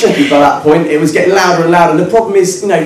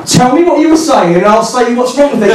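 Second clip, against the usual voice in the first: higher-pitched challenge at normal pace; argumentative demand; 6 semitones higher than usual. Retold or imitated. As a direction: press him for an answer. Mock argument, first round.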